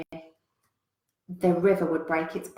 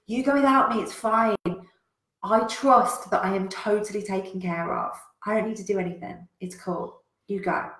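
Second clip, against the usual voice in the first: shouted refusal; 3 semitones higher, 3 dB louder than usual. Retold or imitated. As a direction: shout it off, unbothered. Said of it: "And Andrew shouts out".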